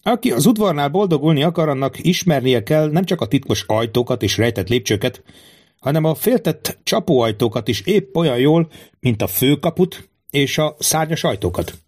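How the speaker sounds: a hint of a monarch schooling his young guard; worldly-wise king. King advises Quentin. (tapasztalt király enyhén színezett, oktató hangja)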